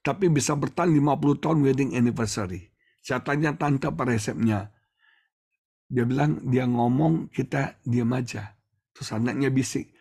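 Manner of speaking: ordinary delivery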